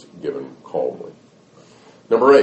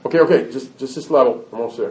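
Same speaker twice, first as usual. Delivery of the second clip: lightly voiced kid pleading for more game time; higher-pitched, distracted brush-off; stalling child; 5 semitones higher, much faster than usual. Child stalling mother over game.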